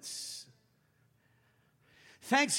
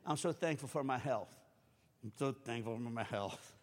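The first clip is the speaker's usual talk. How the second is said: each take lower and softer; quietly trailing off the line; fading repetition; 12 semitones lower, 10 dB quieter than usual. Retold or imitated. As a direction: let it fade as you repeat.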